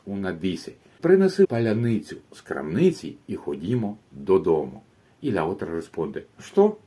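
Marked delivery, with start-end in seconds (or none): 1.0-4.8 confident request. Acted. Persona ucraniana pide algo. 6.4-6.8 sharp high baffled "Что?"; a blank, startled what, much higher and louder. Acted. El ruso no entiende nada.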